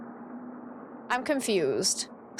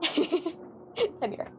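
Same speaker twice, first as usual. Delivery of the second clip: usual speaking voice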